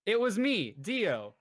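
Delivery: a hint of a villain's reveal; mock villain reveal, lightly voiced; Dio meme. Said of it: "I needed to throw that meme in there".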